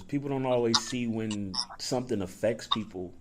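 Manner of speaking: whistled S sounds; whistling S's. Real, not acted. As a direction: whistle on every S. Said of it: "I whistle when I say my S's".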